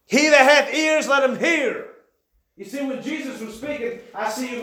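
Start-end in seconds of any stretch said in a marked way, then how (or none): 0.0-1.9 louder, slow scripture cry; cried out. Retold or imitated. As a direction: call the verse out slowly. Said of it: "he cried".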